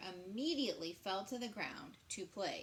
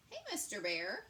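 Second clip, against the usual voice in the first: louder call; 5 dB louder than usual. Acted. Little possum calling out to the sobbing bear. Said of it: "he called".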